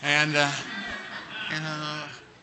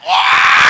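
mock wail; 12 dB louder than usual. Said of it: "And I'm like".

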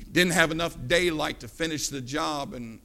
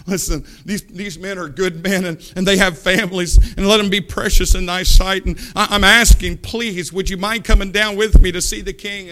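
acted pleading; 7 dB louder than usual. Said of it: "he falls at the feet of Elijah".

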